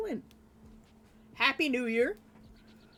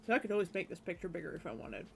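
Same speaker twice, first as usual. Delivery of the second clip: talking while crunching food; crunching chips; 3 dB quieter, faster than usual. Real, not acted. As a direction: chew and talk at once. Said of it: "Sorry, I'm crunching on stream again".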